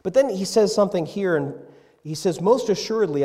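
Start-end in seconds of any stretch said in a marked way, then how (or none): 2.4-3.2 solemn proclamation. Acted. Reading Jesus' solemn words.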